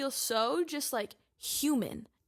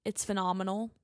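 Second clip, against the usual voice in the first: normal talking voice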